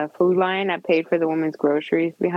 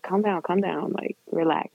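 inner self-soothing; 6 dB quieter than usual. Retold or imitated. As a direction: quietly talk yourself down. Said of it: "in my head, I'm like".

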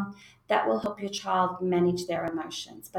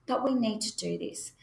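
calm but firm. Shown as a demonstration. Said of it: "You're letting them know".

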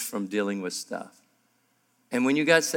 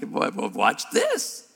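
amused God; 3 semitones lower, much slower than usual. Retold or imitated. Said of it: "He's gotta be like".

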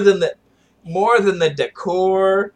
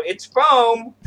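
mock resignation; 4 semitones higher than usual. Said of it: "Or you just go".

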